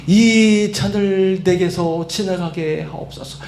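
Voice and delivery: slow, drawn-out plea; retold prayer. Jesus praying before the cross, slow plea. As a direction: draw out each phrase as a petition. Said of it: "그때 뭐라고 기도했어요".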